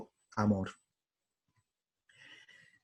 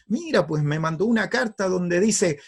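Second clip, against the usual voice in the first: indignant dad voice, pitched up; angry father; 5 semitones higher than usual. Acted. Father complaining to wife about a letter, angry. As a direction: report it crossly as the offended father. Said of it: "y se empieza a enojar".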